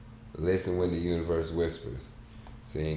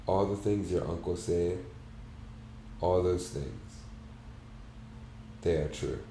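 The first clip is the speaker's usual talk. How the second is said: soft and gentle; 4 dB quieter than usual. Acted. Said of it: "And then I said softly".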